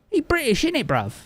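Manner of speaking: high London roadman answer, falling tune; mock London slang. Streamer answering chat in mock London slang, falling. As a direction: play it up like a cheeky London lad.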